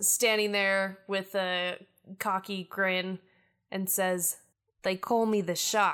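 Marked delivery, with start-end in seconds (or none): 4.8-5.9 put-on Australian accent. Voicing a cocky character introducing herself: Australian accent. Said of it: "Now you're Australian?".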